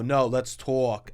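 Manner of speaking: slow drawn-out Brooklyn "let's talk"; Brooklyn accent. Retold or imitated. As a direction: stretch "talk" as "tawk", Brooklyn style. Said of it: "but then they go".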